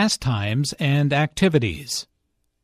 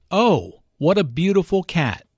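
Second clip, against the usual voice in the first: "beautiful" lifted and leaned on, after a raised "Oh"; stress on beautiful; 4 semitones higher than usual. Shown as a demonstration. Teacher showing the stressed adjective, leaning on "beautiful". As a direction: land the weight on "beautiful". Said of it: "Notice the emphasis on beautiful here".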